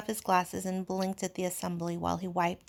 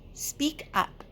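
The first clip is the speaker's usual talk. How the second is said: gentle prompt; 7 semitones higher than usual. Acted. Coaxing a frightened small boy.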